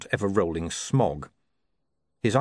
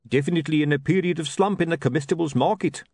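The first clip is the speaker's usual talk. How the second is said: higher gloomy hawker voice; lightly voiced sunk in gloom; Dibbler's voice; 7 semitones higher than usual.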